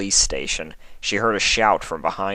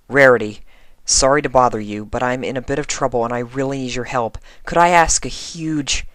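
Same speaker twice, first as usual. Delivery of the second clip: higher, hurried pleading; Twilight's anxious letter; 5 semitones higher, 3 dB louder than usual. Acted. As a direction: rush it like a worried friend in trouble.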